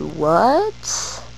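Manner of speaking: drawn-out, rising disbelief; re-enacted stunned question with a long upward swoop; retold shock. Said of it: "my heart dropped".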